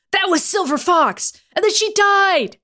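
slow, loud, high gruff protest; hammed-up Logan. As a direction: overplay the desperate excuse.

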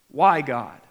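loud, pained cry to God; anguished cry. Retold or imitated. Believer crying out to God, loud and pained.

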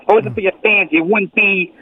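usual speaking voice

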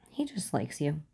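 hushed, voiceless aside; whisper. A narrator's reading. Uncle whispering to Catherine about his nephew. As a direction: whisper it close so only she hears.

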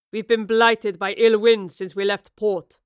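captain complains of the ill winds. A narrator's reading. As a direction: grumble it like an old salt. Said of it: "he replied".

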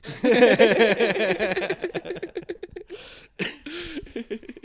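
long high-pitched laugh; real, drawn-out high laughter. Real, not acted. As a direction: crack up at your own story. Laughing after his own story.

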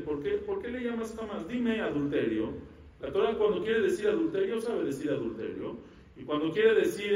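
mildly insistent objection, pitch often lifted; challenging question. Retold or imitated. Lecturer voices the commentators' objection to the text, mildly challenging. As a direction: press the point like a puzzled commentator. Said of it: "preguntan los comentaristas, preguntan los mefarshim".

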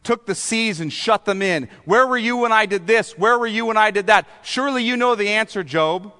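high, relentless sarcastic grilling as God; pressing, sarcastic interrogation; sarcastic questioning. Acted. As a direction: pile up mocking questions, pitched high. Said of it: "God was sarcastic for four chapters".

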